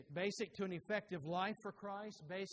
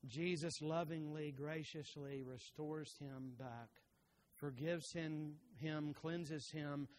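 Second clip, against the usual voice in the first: tender; 3 dB quieter, slower than usual. Acted. Tender telling of restoration.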